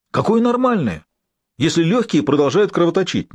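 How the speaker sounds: high-pitched, agitated protest; nervous outcry. A narrator's reading. Patient protests that his lungs still bleed, crying out nervously. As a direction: cry out nervously, pitch jumping up. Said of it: "нервно выкрикнул Норман".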